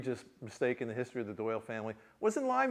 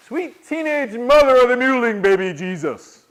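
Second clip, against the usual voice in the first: loud, slow, higher oath; grandpa's yell; 9 semitones higher, 16 dB louder, slower than usual. Retold or imitated. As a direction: bellow it like a fed-up grandfather. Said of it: "somebody yelling that in the kitchen".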